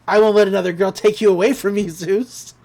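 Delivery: fast, half-hearted retold screaming; mild mock scream. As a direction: rush it as a possessive mock outburst. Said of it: "And she starts screaming".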